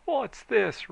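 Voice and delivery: high loud roared question; high loud mob roar; crowd roar. A narrator's reading. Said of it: "roared the crowd".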